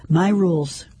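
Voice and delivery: tight-jawed, lightly voiced; through clenched teeth. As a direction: keep the teeth shut as you speak. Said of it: "my teeth clenched".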